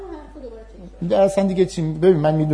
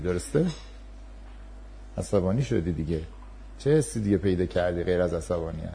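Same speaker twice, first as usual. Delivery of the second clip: calm reassuring teacher; 3 semitones lower, 5 dB quieter than usual. Shown as a demonstration. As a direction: talk him down gently, acknowledge his anger. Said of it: "من میام پهلوی اون".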